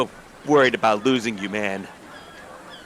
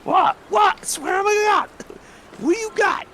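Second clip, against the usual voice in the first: very high squawky parrot voice; high parrot mouthing off in Brooklyn style; squawking parrot. Acted. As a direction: screech it like an angry parrot. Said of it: "the bird's gonna respond there in kind".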